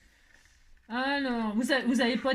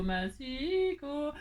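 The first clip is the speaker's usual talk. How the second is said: "massicot" stretched very slowly, syllable by syllable; drawn out; 3 semitones higher, much slower than usual. Shown as a demonstration. Crafter annoyed at her paper cutter, drawling "massicot" very slowly. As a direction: draw out "massicot" like a grumble.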